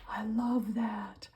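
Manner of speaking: slow whisper of admiration; hushed delighted whisper. Real, not acted. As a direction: breathe the words, a little slow. Admiring a craft piece.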